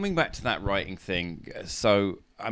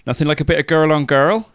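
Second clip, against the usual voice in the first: mock saucy voice; 7 semitones higher, 8 dB louder, faster than usual. Cheeky innuendo voice.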